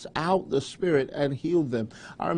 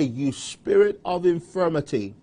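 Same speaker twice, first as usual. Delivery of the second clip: firm rebuke of a spirit; commanding prayer; 2 semitones higher than usual. Shown as a demonstration. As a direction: order the sickness out with authority. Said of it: "just say".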